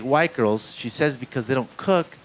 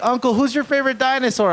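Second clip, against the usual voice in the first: put-on high, loud little-kid voice; imitated three-year-old; 13 semitones higher, 5 dB louder than usual. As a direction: ask it like an eager small child. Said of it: "He's, like, three years old".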